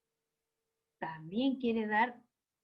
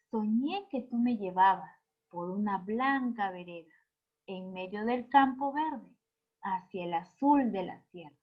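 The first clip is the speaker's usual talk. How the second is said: poetic reading. Shown as a demonstration. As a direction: read the verse with a gently shaped, expressive melody. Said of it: "le damos una entonación diferente a los poemas".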